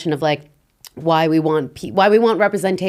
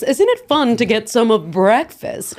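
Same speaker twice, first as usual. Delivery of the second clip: mock general American accent, put on; fake American accent; 3 semitones higher than usual. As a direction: parody a foreigner faking an American accent. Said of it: "they speak like this".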